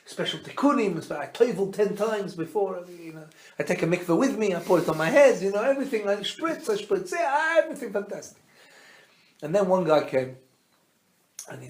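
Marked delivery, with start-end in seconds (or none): 0.1-8.4 mock-eager Hasid, piling up his preparations, pitch climbing; excited boasting. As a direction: gush like an over-keen candidate.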